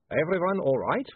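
put-on lightly accented vampire; a hint of a Transylvanian vampire. Vampire Otto speaks.

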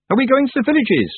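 high yell over the wind. A narrator's reading. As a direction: shout above the noise. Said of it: "Tiffany yelled above the din".

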